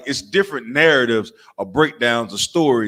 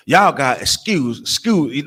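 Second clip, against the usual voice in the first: put-on chopped old folk talk; slower than usual. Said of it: "they chop every word up".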